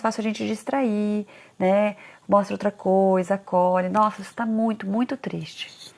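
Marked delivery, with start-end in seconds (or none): 3.9-5.9 soft, slow, fading comfort; tender, hushed and drawn out at the end; soothing parent. Retold or imitated. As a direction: gently acknowledge the child's sadness. Comforting a crying child.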